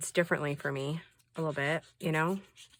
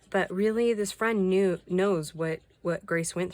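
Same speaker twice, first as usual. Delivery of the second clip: indignant; 3 semitones higher, 6 dB louder than usual. Real, not acted. Indignant emphasis.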